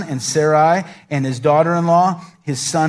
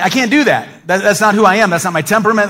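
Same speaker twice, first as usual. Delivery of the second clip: higher, louder self-doubting objection; retold protest; 3 semitones higher, 4 dB louder than usual. Preacher recalling his objection to ministry, mild protest. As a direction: protest your own unfitness, half-laughing at first. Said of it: "And I remember thinking".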